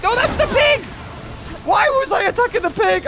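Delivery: very high loud disbelief; horrified realization. Real, not acted. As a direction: cry out in shock. Realizes he hit pet.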